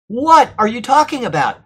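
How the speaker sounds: high, incredulous demand; acted dismayed reproach. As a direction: confront them as if appalled. Voices Paul's dismayed reproach.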